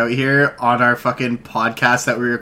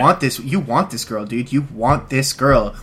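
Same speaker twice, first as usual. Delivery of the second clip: mock stockbroker pitch. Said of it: "just say".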